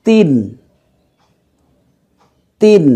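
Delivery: তিন with a thin, light t. Shown as a demonstration. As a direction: say তিন with a light, unthickened t, drawn out. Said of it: "এখানে পাতলা করে".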